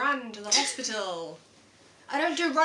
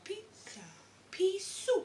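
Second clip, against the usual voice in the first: imitating a drugged friend; 3 semitones higher, 13 dB quieter, slower than usual. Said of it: "Sat with a bit of pizza going".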